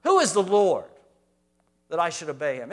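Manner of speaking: loud sneering challenge; preacher voicing Pharaoh's hard heart, loud and scornful; defiant Pharaoh. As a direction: scoff at God like a proud king. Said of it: "you hear what's stored up in his heart".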